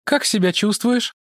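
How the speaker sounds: high woman's voice; woman character. Acted. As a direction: Mara greets the monk, pitched high. (Мара приветствует монаха высоким женским голосом)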